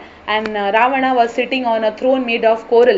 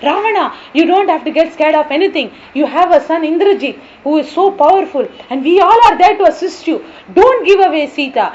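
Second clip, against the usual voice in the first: eager demon cheer; 3 semitones higher, 4 dB louder than usual. Acted. Second demon urges war.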